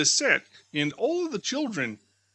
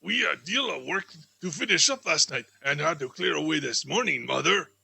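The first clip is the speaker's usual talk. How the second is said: put-on young daughter; 2 semitones lower than usual. Daughter Martha answers her mother.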